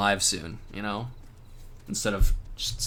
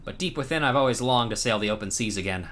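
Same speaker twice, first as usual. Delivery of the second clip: hammed-up pirate. Streamer reads the pirate's quest to the hero, hammed-up. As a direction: play the swaggering old pirate. Pirate NPC longs for sea.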